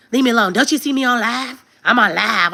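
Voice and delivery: mock irritated mom. Mock snapping at kids on live.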